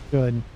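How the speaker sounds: "Should" set apart as a single emphatic word; stress on SHOULD. Real, not acted. Caster doubting the Fat Boy's output, stressing "Should". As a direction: put the emphasis on "Should", said alone. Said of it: "Emphasis on the word should".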